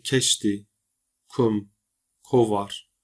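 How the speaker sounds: "keşti, kum, kovar" with a hard K; hard K opening "keşti", "kum", "kovar". Shown as a demonstration. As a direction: read each word with the hard Kurdish K, spaced apart. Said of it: "K'nın sert okunan versiyonu".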